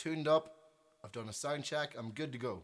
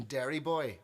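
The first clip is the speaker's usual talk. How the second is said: retold heckle, a little louder; mock shout; 5 dB louder than usual. Lady heckles the musician from her seat, mildly mock-shouted. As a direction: lightly imitate a heckler calling out. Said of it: "starts shouting".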